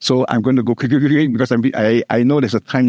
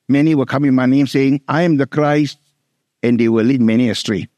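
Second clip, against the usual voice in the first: quick quotation. Shown as a demonstration. Pastor quickly re-quoting the verse before explaining it, brisk. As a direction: rattle the verse off quickly as a reminder. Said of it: "text over here".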